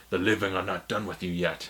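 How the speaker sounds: low, soft, solemn Black Panther voice. Retold or imitated. Black Panther calmly stopping the suicidal villain, low and hushed. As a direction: intone it gravely like a king. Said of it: "Black Panther stops him".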